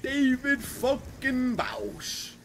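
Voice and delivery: slow, drawn-out hyped shout of a name; hype greeting. Real, not acted. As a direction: stretch the name out like a big welcome.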